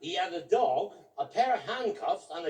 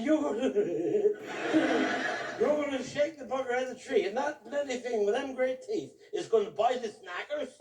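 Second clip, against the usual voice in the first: laughing disbelief; 4 semitones higher than usual. Retold or imitated. Incredulous retold question.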